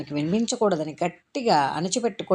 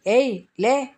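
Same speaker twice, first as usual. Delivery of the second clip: sharp, loud, higher bark; harsh order; 6 semitones higher, 4 dB louder, slower than usual. Acted. Warden yanking off the crying girl's blanket, harsh bark. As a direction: snap the girl awake. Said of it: "అంటూ కరుకుగా".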